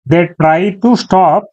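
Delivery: very slow, each word spelled out; slow dictation. Shown as a demonstration. Teacher reading the example sentence aloud to students, very slow. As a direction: read the sentence word by word for learners. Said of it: "ఒక example sentence చూద్దాం".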